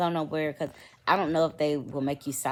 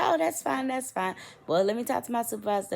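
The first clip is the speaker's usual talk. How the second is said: much higher, breezy customer-service voice; mock the sweet lady on the phone, pitched way up; imitating the phone agent; 8 semitones higher than usual. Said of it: "She said".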